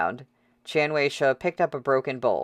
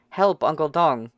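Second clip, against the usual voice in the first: put-on girl's cry for help; 3 semitones higher, 3 dB louder than usual. Choked girl calling for help.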